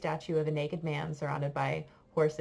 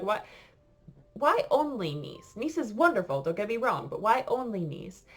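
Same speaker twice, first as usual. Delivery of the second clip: higher, incredulous questioning; retold puzzlement; 5 semitones higher, 3 dB louder than usual. Tourist questioning a father's summers in Nice, puzzled. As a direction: act out baffled curiosity.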